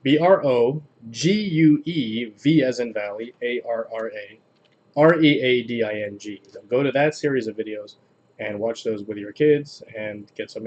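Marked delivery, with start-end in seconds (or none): 0.0-6.4 slow careful spelling. Shown as a demonstration. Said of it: "Let me start again".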